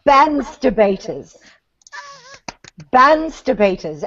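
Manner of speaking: Bansterbaters in a light British accent, drawn out. Shown as a demonstration. Asked to say it again, light British Bansterbaters. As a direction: repeat Bansterbaters with a British lilt. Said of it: "Say it again".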